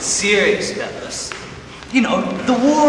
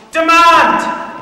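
one loud, higher word; forceful correction; 7 semitones higher, 7 dB louder than usual. Acted. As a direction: slam the word down like an order. Officer corrects into telephone.

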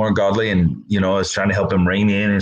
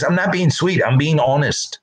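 wife protesting; 7 semitones higher than usual. Retold or imitated. Wife voiced in a story.

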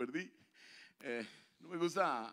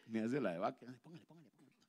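ordinary talk, nothing marked

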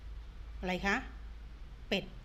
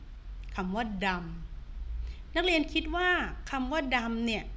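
stretched out; much slower than usual. Shown as a demonstration. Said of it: "teacher drawing out question".

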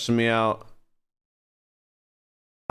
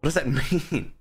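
puzzled; 5 semitones higher than usual. Real, not acted. Puzzled reaction to game change.

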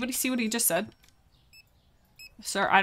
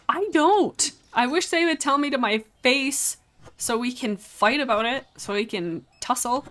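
mock fighting eagerness; 6 semitones higher, 6 dB louder than usual. Real, not acted.

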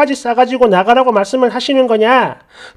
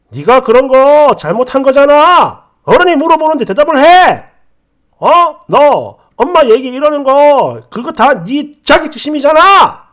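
mock angry boyfriend; 3 semitones higher, 5 dB louder than usual. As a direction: imitate the boyfriend telling her off. Boyfriend scolding her.

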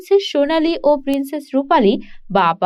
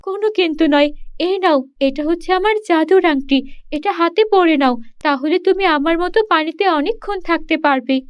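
put-on higher, sweet-toned young mermaid voice, pleading; mermaid princess; 4 semitones higher than usual. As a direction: coax the shepherd into marrying her. Mermaid gives magic ring. (উঁচু গলায় আবদার করা জলপরি)

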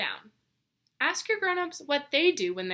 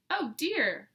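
worried gasp; 5 semitones higher, 4 dB louder than usual. Acted. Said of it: "Mole gasped, looking worried".

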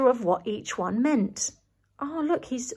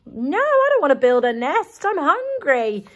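mild bear protest; 4 semitones higher, 3 dB louder than usual. Acted. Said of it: "he's thinking".

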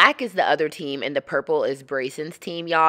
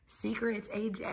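soft, higher hushing tone; playful hush; hushed warning; 4 semitones higher, 13 dB quieter than usual. Pretend. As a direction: softly warn a child to keep quiet. Hushing nephew about secret breakfast.

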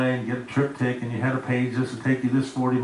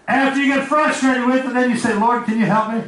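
rising plea; 8 semitones higher, 4 dB louder than usual. Acted. Preacher builds to a plea.

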